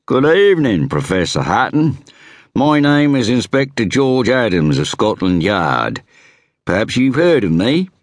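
lightly voiced inspector introducing himself; inspector's voice. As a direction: play the self-assured Scotland Yard inspector. Inspector character dialogue.

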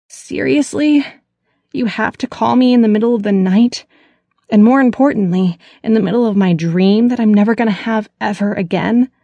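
high, loud, indignant outburst; woken-up sister rants into the phone; croaked angrily. Acted. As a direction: snap at the caller for waking her. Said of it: "she croaked into the phone angrily".

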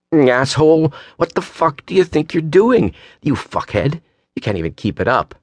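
high angry tirade, easing toward the end; acted screaming. A narrator's reading. Woman hurling abuse as he tunes back in, screaming. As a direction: start high and furious, then let it drop. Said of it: "what she was screaming".

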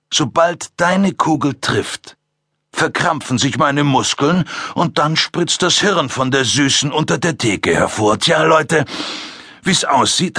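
höher, genüsslich spottend; spöttischer Killer. Acted. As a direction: zeig ihm, dass du die Oberhand hast. Ackerman verhöhnt Tom. (Ackerman verspottet Tom genüsslich)

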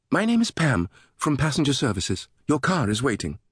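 high-pitched British greeter; sing-song British woman. A narrator's reading. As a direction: introduce yourself in a lilting British voice. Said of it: "a sing-song British voice".

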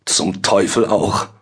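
slow, groaned curse; aufstöhnend. A narrator's reading. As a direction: groan it out slowly as the dismayed judge. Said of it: "stöhnte Richter Adam auf". (stöhnend geflucht)

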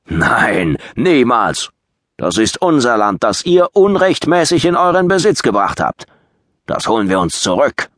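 loud, high angry shout; furious refusal. Acted. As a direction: hurl the refusal back. Saxon leader angrily refuses the offer.

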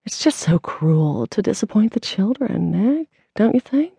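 prim, preachy disapproval; lightly voiced pious scold; sanctimonious. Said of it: "with her sanctimonious tone".

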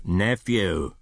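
curt, stern form of address. Acted. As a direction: cut him off with mild severity. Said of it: "returned the uncle sternly".

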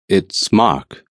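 a touch of husk, "Mark" falling; husky. Acted. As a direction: force the name out, throat tight. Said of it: "I managed huskily".

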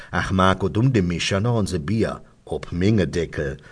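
lightly voiced Kölsch old-timer; old undertaker. Undertaker explains his anecdote, lightly voiced dialect old-timer. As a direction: gossip on in dialect as the old local. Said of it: "sagt Franke".

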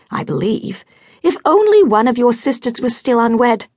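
a mother despairing over her youngest; fussy scolding mother. Acted. Lady Beverley scolds Lizzie.

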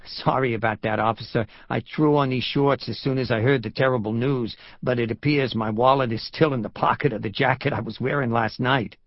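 apologetic New Yorker making excuses; lightly voiced New York tourist; New York accent. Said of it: "His New York accent grated".

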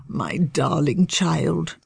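slow, tired father sigh; weary. Acted. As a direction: say it slowly, worn out. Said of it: "Marchwood said wearily".

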